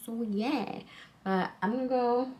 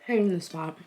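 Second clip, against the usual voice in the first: mouth full; 5 dB louder than usual. Real, not acted. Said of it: "I can't talk with my mouth full".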